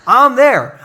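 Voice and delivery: resigned, loud give-up line; hammed-up despair; mock defeated Elijah. Elijah giving up.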